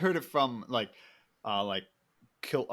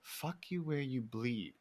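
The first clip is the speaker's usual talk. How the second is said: slow puzzled repeat, rising high on the question; Chris D'Elia; 4 semitones higher, much slower than usual. Retold or imitated. Comedian questions the guy's insult, slow and baffled. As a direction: drag out each word, then climb in disbelief. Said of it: "Chris D'Elia goes".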